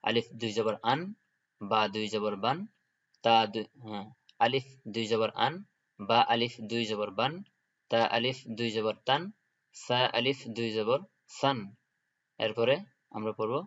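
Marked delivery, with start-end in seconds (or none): 0.0-11.6 each letter spelled with a rise, then the tanween syllable; teacher recitation drill. Shown as a demonstration. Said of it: "আমি আবার বলে দিচ্ছি".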